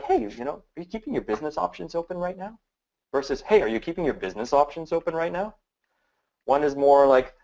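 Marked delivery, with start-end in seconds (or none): 0.0-2.6 pushy drill sergeant grilling, fast. Shown as a demonstration. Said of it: "I'm drilling you as a drill sergeant". 3.4-5.5 easy, curious question, no pressure; just curious. Shown as a demonstration. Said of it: "One's just curious".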